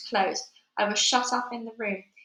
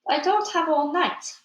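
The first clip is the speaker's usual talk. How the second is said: impatient scolding; 3 semitones higher, 3 dB louder than usual. Acted. Witch scolds witches.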